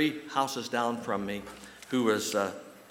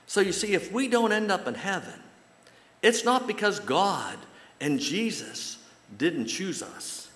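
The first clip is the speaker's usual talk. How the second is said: much higher, slow and louder; impassioned; 8 semitones higher, 4 dB louder than usual. Real, not acted. Preacher pleads with the congregation, higher and impassioned. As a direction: press the point home with passion.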